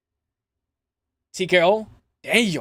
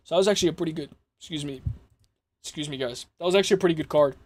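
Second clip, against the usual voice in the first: hiccuping while talking; interrupted by hiccups; 4 dB quieter, faster than usual. Real, not acted. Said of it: "I got the hiccups".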